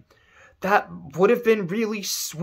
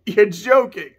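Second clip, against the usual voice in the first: second take pushed louder; louder disbelief; 5 semitones higher, 5 dB louder than usual. Acted. Kuja refusing to believe his death sentence, louder. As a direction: repeat it with more disbelief. Acting Kuja's disbelief scene.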